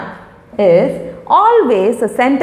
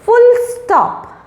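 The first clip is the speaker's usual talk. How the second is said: big teacherly "Full stop" with a falling end; emphatic "Full stop"; 12 semitones higher than usual. Shown as a demonstration. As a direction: announce "Full stop" like a rule. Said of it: "you have to give a full stop".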